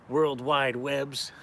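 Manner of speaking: slow drawn-out. Acted. Joking drawn-out phrase.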